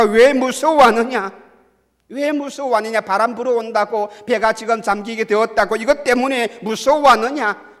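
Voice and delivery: loud, high scolding questions; forceful rebuke. Acted. Jesus rebukes disciples afraid of wind, in a forceful scolding. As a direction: thunder the reproach from the pulpit. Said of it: "주님께서는 제자들에게 책망을 하였는데".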